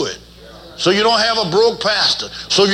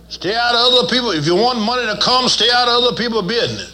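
building to the point; 4 semitones higher than usual. Shown as a demonstration. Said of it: "the point's coming up".

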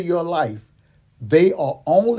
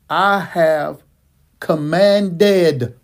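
"commanded" louder, pushed out; stress on commanded; 3 semitones higher, 6 dB louder, much slower than usual. Shown as a demonstration. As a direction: hit the word "commanded" hard. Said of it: "I'm gonna need you to underline this".

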